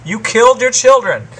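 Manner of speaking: lightly voiced accusing TV host, high and loud; Nancy Grace. Playing an interviewer accusing a guest, mock accusatory. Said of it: "like Nancy Grace and start accusing people".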